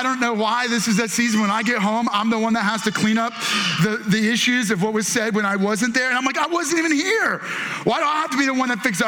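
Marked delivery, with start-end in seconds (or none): 6.4-9.1 higher-pitched complaint, speeding up; exasperated protest. Retold or imitated. Dad who has to clean up issues, exasperated. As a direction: protest the unfairness, voice raised in pitch.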